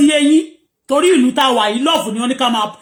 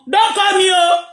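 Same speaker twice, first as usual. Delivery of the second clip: raised warning; 5 semitones higher, slower than usual. Real, not acted. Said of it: "Don't do what?".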